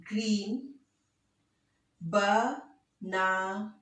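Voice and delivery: slow, word by word, counting each beat. Shown as a demonstration. Teacher counting the beats aloud for the class. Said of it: "Let's count the beats".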